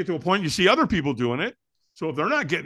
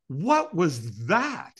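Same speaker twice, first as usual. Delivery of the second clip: acted bewilderment; 3 semitones higher, much slower than usual. Teller acts out his bewilderment.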